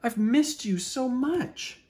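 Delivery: high, loud stammered plea; eager, halting cry. A narrator's reading. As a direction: pour it out, stumbling on words. Bear greets friend emotionally.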